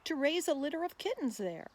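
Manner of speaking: put-on slow, measured rhyming read for children; poem recitation. Reading a wild cat's poem aloud to children, measured recital. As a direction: recite it like a nature poem for kids.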